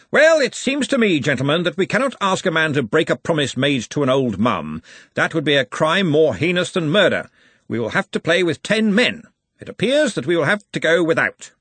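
loud opening, then solemn pronouncement; Ridcully. A narrator's reading.

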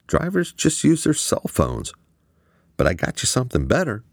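high, rushed tech talk; Quan explaining. A narrator's reading. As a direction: rattle off the excuses, then brighten.

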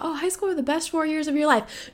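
high mocking singsong of people who loved school; mocking quote. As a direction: parrot the cliché with a high mocking lilt. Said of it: "Everybody talks about".

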